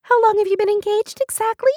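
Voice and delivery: high, loud, hammed-up outrage; dramatic cry. Beth demands engagement details from Lindsay, crying out dramatically. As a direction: wail it with theatrical indignation. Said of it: "Beth cried".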